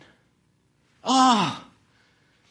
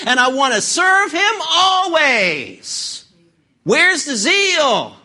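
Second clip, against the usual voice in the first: rising, pleading sermon voice; fiery preaching; 3 semitones higher than usual. Acted. Preacher rousing his congregation, fiery and building. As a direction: stir up the congregation's passion.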